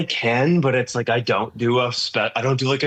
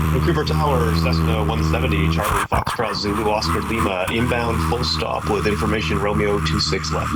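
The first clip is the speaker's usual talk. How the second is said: pilot radio call. Shown as a demonstration. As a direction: talk as if into a radio mic. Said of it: "kinda act like you're talking into something".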